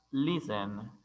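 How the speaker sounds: "listen" with the weight on LIS; stress on first syllable. Shown as a demonstration. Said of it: "énfasis de sonido en la primera sílaba".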